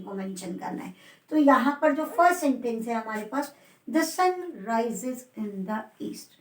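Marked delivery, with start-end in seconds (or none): 3.9-6.3 very slow, careful model sentence with "east" rising; rising intonation on east. Shown as a demonstration. Teacher modelling the sentence for students, slow and rising on "east". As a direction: spell it out slowly, let the voice go up on "east". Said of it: "ईस्ट पर आपको क्या करना है? Rising intonation".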